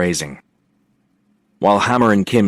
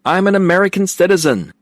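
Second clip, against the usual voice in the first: a much higher, louder mock-patriotic yell; 11 semitones higher, 4 dB louder than usual. A narrator's reading. Will mocks his friend's outburst, yelled high and loud. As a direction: belt it out as a gleeful mocking proclamation. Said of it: "Will yelled".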